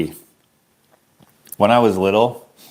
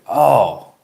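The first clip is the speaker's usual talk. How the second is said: put-on pitched-up childish delight; mock delight; 3 semitones higher, much slower than usual. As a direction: act thrilled at the two syllables like a kid. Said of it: "I was like".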